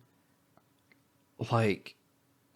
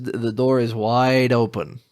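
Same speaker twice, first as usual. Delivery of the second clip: slow, louder, each word leaned on; emphatic slow repeat; 5 dB louder, slower than usual. Real, not acted. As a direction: hammer home the door is wide open. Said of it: "His, his".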